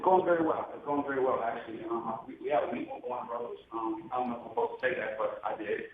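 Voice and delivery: muffled, boomy, far from the mic; inside a fishbowl. Real, not acted. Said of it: "Rich, you sound like you're in a fishbowl".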